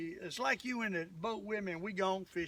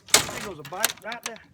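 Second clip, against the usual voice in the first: excited call; 9 dB louder than usual. Real, not acted. Spots a bite while fishing.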